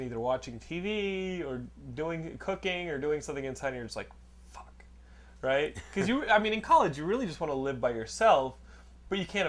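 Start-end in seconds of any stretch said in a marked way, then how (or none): 4.5-4.8 very quiet, deflated curse; muttered dismay. Retold or imitated. Student hears his roommate is home, muttered dismay. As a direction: curse under your breath.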